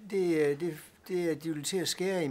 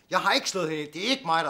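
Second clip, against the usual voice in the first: much louder, frantic protest; panicked loud denial; 2 semitones higher, 11 dB louder, faster than usual. Acted. Man beside a dead woman, panicked loud denial.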